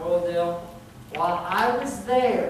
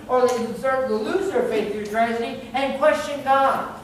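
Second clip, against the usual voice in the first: higher-pitched sermon delivery, building in force; earnest preaching; 5 semitones higher, 5 dB louder than usual. Acted. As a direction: press the warning home to the congregation.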